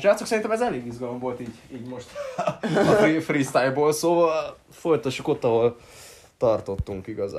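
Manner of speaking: giggly announcement to listeners; laughing through it. Real, not acted. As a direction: wrap up while laughing. Laughing while wrapping up.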